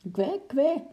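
very high quacking penguin. Acted. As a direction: quack like a frightened little penguin.

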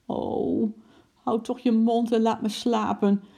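high, fed-up groaning complaint; acted weary exasperation; exasperated. A narrator's reading. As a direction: beg crossly to be left alone. Acted quarrel, husband wants to sleep.

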